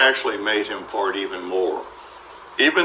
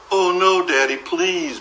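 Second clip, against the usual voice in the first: begging; 7 semitones higher than usual. Acted. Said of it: "begged Betty and Billy".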